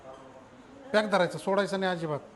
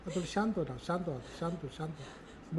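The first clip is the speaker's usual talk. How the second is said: calming, fading; 7 dB quieter than usual. Real, not acted. Calming a crying patient.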